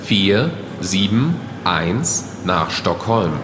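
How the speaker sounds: calm, formal gate call; airport announcement. Acted. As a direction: announce it over the terminal speakers.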